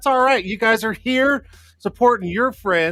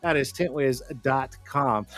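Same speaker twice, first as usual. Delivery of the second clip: commercial voice; 4 semitones lower, slower than usual. Real, not acted. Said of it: "starting to sound more like a damn commercial".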